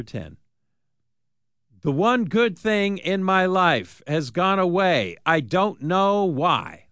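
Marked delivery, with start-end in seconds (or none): 1.8-6.9 slow, deliberate lyric reading; lyric read slowly. Shown as a demonstration. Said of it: "here is your lyric".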